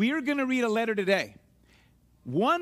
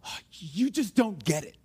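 mild exasperation, pitched lower; frustrated; 4 semitones lower than usual. Acted. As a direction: let out a restrained frustrated complaint. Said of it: "were so frustrated with somebody".

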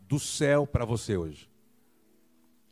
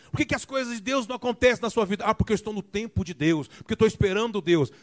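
higher, mock-pious voice of complacent believers; mocking evangelicals; 8 semitones higher than usual. Preacher mocking believers who just wait, higher mock-pious voice. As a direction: lightly parody the waiting believer. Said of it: "vejo muitas pessoas evangélicas dizendo assim".

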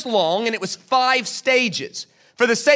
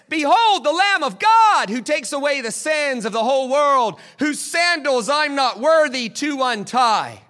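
raised, ringing proclamation; John proclaiming; 4 semitones higher than usual. Retold or imitated. John the Baptist hails Jesus at the river, raised ringing proclamation. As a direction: announce the Lamb of God like a prophet. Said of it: "And John says".

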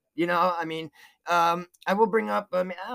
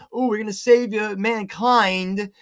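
louder, drawn-out mocking quote; mock their lofty claim, stretching the big word; mock grandiose; 5 dB louder than usual. Mocks billionaires' supposed good intentions.

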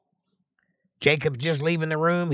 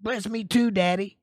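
high, pleading plea for a blessing; pleading cry; 8 semitones higher than usual. Acted. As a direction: beg your father, voice up high. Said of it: "cried with a great and exceeding bitter cry".

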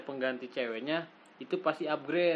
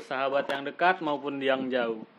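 snake oil seller. Acted. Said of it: "kayak tukang obat lu".

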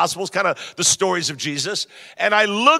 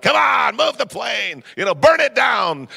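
mock grumpy yelling; 4 semitones higher than usual. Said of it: "I was just yelling anything".

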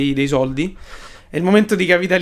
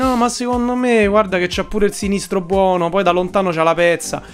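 hyped football pundit; 5 semitones higher than usual. Retold or imitated. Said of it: "tutti quanti a dire".

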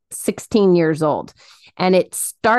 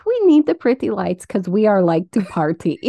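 mock Russian accent breaking into laughter. Cohost quoting her friend about pretty lights, laughing Russian accent. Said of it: "that accent".

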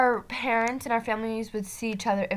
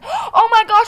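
surprised; 10 semitones higher, 7 dB louder than usual. Retold or imitated. Surprise on seeing Grace.

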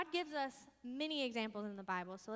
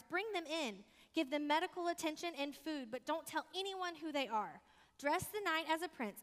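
commanding king; 5 semitones higher than usual. Acted. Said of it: "the king commanded his guards".

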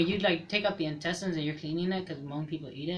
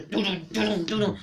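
machine noise. Retold or imitated. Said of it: "so all you hear".

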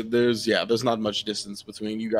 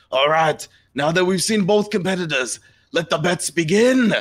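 high, loud announcer voice of a devil toad; 8 semitones higher, 5 dB louder than usual. Acted. GM as the Devil Toad, announcing to the arena crowd. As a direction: call out the bets like a ringmaster.

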